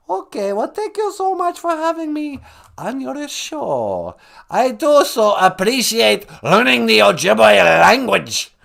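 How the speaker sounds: high, slow, gushing thanks; theatrical high-voiced guest; high-pitched guest character.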